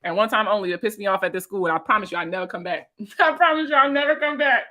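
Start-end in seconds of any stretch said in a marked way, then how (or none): 3.2-4.6 laughing vow. Real, not acted. Repeating her vow with a laugh.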